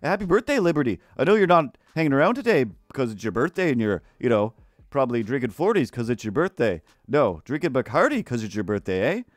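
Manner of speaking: bouncy, swooping voice with tagged-on "eh"; chatty Canadian-style hoser voice; put-on character voice. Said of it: "still going with this voice".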